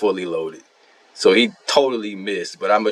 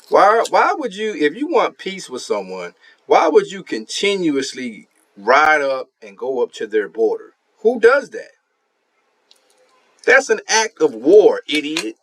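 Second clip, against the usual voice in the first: exasperated rant; 4 semitones higher than usual. Real, not acted. Gamer ranting at his rival, incredulous and high. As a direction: voice climbing high in disbelief.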